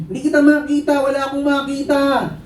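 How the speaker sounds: high-pitched distressed shout; acted helpless calling back; panicked child. Child blinded by smoke answering father, panicked shouting.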